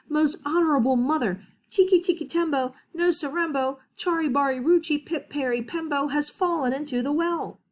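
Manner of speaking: high, quick and breathless; urgent child. Acted. Little Chang tells his mother, high and hurried. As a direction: rattle off the long name to mother in a rush.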